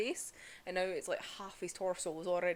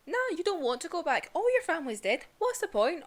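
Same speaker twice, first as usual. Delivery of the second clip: higher, louder sneering villain voice; mocking Muzan; 8 semitones higher, 5 dB louder than usual. Vlogger voicing Muzan taunting Tanjiro, higher sneering villain. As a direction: taunt him from above like a smug demon lord.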